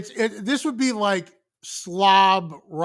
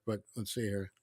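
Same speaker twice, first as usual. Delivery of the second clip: crunching chips; 10 semitones lower, 15 dB quieter than usual. Real, not acted. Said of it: "Ooh, it's a nice crunch".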